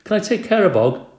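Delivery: high, loud and eager; boy loudly asking to care for the frog; loud eager question. A narrator's reading. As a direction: blurt it out across the class. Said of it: "A J said loudly".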